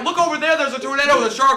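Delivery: high, loud shout of alarm; hammed-up panicked pointing-out; mock alarm. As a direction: call out the danger like a bad actor. Acting alarmed movie characters.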